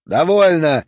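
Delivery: barked. A narrator's reading. Police chief barks to silence the prisoner, loud. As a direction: snap one word like a command. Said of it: "рявкнул Хорлокер".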